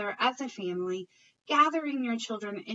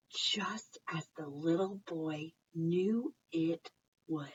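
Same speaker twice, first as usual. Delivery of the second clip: whisper; 6 semitones lower, 5 dB quieter, slower than usual. Acted. Whispered storytelling line.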